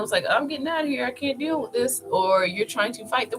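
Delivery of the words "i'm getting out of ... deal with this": mock panic. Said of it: "you're trying to run".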